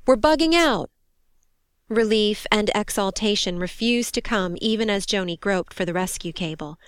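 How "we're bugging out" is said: high, loud urgent call; shouted. A narrator's reading. Crewman urging the soldier to evacuate, shouted. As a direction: shout that it's time to leave. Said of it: "he shouted".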